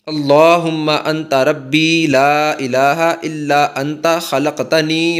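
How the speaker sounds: slow, measured recitation with drawn-out vowels; Arabic prayer recitation. Shown as a demonstration. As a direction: recite the supplication slowly, phrase by phrase.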